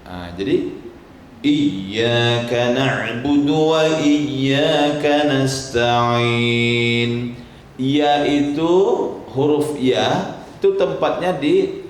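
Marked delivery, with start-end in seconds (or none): 1.4-7.3 slow chanted recitation, drawn out; very slow melodic Quranic chant. Shown as a demonstration. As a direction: intone it slowly like tilawah.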